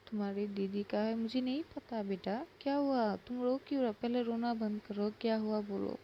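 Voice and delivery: worried urging. Acted. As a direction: push gently but urgently for an answer. Brother urges crying child to speak.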